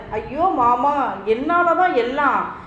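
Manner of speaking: a mild acted wail of guilt. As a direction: niece wailing to her uncle, blaming herself. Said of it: "என்று கதறினாள் ஆரா".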